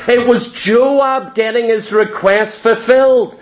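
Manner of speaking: forceful shout landing on fulfilled; preacher shouting the point to the congregation; preaching emphasis. Real, not acted. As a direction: hammer the point home. Preacher drives home his point.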